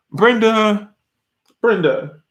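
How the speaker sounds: sighing, drawn-out call of a name; mock scolding. Scolding Brenda for grabbing the towel, in mock exasperation. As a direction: call out the culprit with playful reproach.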